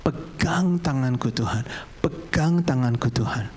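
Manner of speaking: slow, drawn-out earnest plea; pleading prayer. Pretend. Preacher praying to God to hold his hand, slow plea. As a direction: stretch the words in a restrained prayer.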